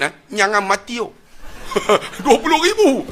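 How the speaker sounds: high, laughing repeat of the price; laughing mockery. Preacher laughing at the funeral cost, amused. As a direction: chuckle through the sum. Mocking Chinese mourners' cost.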